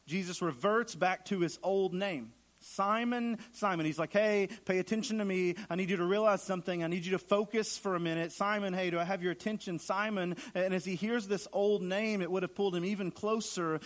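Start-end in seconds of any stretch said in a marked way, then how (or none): 2.6-3.9 attention-getting name call, high then dropping; Jesus. Acted. Jesus reverts to the disciple's old name, calling for attention. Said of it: "Jesus repeating himself". 4.1-10.4 insistent, raised-pitch plea for attention; Jesus. Acted. Jesus to his disciple, urgently demanding his attention. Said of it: "to get his attention".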